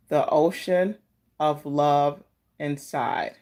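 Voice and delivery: slow, gentle reading of a card message; oracle card reading. Acted.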